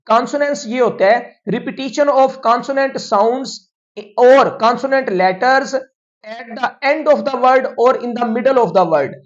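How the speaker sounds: reads the English definition word by word, very slowly; slow, deliberate teacher dictation. Shown as a demonstration. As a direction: spell it out slowly so students can write it down.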